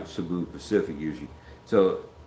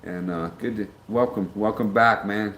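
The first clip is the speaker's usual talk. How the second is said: amateur Australian accent, pitched up; messed-up Australian accent. Shown as a demonstration. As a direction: do your best bad Australian accent. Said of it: "With my best messed up Australian accent".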